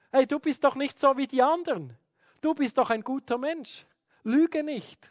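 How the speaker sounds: put-on butter the child up, then warn; coaxing parent. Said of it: "Oder man sagt dem Kind".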